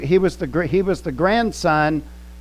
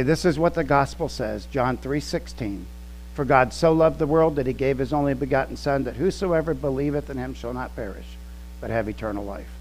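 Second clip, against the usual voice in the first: softer, calm gospel verse; 3 semitones lower, 6 dB quieter than usual. Shown as a demonstration. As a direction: recite it gently and calmly, dropping softer. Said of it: "very calmly say".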